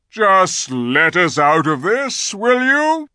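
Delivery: loud, slow request rising high; commanding lion. A narrator's reading. Aslan asks the giant to open the gates, commanding. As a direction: call the request up as a friendly order. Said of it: "said Aslan".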